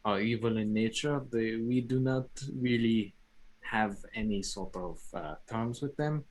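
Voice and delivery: measured forest guardian, halting phrases; druid in character. Acted. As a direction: explain calmly in character, pausing often. Player speaks as druid character.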